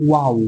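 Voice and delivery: ওয়াও with both lips rounded; round-lipped ওয়াও. Shown as a demonstration. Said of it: "ঠোঁট দুটোকে একটু গোল করে".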